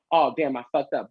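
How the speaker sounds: understated "fucked up" as a mistake; mild mock regret. Host voices the wrong meaning for viewers, mild mock regret. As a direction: toss off "fucked up" like an oops. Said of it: "not as in like".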